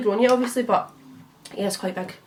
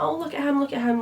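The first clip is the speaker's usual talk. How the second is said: cooing; 5 semitones higher than usual. Retold or imitated. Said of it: "I'm like".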